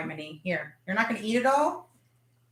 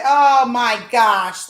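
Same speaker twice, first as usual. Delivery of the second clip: amazed gasp; 9 dB louder, much slower than usual. Real, not acted. Tasting cookie live, overwhelmed.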